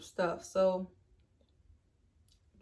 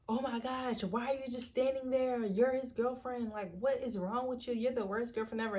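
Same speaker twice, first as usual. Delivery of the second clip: lightly higher indignant crowd voice; scolding onlookers; 4 semitones higher than usual. Retold or imitated. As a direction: scold her like shocked bystanders. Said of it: "Everybody like".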